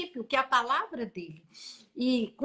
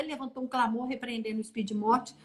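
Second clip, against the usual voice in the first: ordinary delivery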